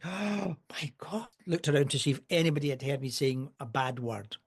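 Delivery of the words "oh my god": gasp, then a high, hushed "oh my God"; shocked gasp. Retold or imitated. Student scandalised at hearing a bad word, mock shock. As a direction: imitate someone scandalised, high-pitched. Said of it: "And she did this".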